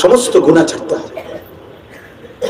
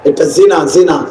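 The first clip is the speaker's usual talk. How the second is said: sober verdict; 2 semitones lower than usual. Real, not acted. Preacher restates the sin after his outcry, sober.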